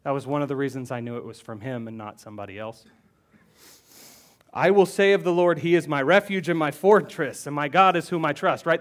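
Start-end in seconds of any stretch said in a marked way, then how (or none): 4.5-8.7 louder, declaiming the verse; emphatic proclamation. Shown as a demonstration. Pastor rereads the psalm to stress its meaning, louder. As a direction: proclaim it to the congregation with force. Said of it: "The first thing he says is".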